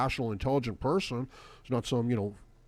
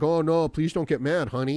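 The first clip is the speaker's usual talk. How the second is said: mildly hammed-up appeasing plea; mock pleading; 3 semitones higher, 3 dB louder than usual. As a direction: imitate a man placating his partner. Voices a man placating his woman.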